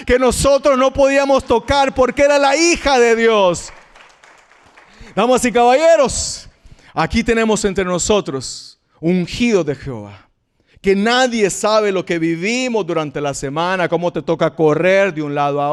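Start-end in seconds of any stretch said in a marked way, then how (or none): 5.2-10.3 announcer. Acted. Announcing the anointed congregation.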